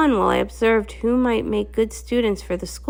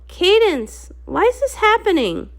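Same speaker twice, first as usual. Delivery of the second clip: terrified question to Cadance; frightened plea; 9 semitones higher than usual. Acted. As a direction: ask it panicking and near tears. Frightened child amid attack.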